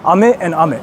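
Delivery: "Ame and ame" with two different pitch patterns; contrasting pitch accent. Shown as a demonstration. Streamer correcting themselves on meanings, contrasting pitch on "ame". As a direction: set the first "Ame" against the second by pitch. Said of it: "depending on how you, like, pronounce it".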